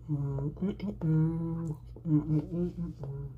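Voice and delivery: talking after a bite; chewing food. Real, not acted. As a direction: mouth partly full. Seen 1: Bites cornbread at -3; lips closed, chewing through +1.8 only.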